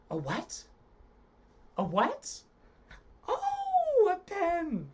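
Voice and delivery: high, loud thrilled cry; shrieking with delight; excited. Shown as a demonstration. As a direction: bubble over with glee. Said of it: "send it back to me with excitement".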